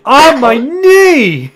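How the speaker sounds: slow, high, loud wail through a laugh; hammed-up pain wail. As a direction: ham up the knee pain while laughing. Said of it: "He's just like".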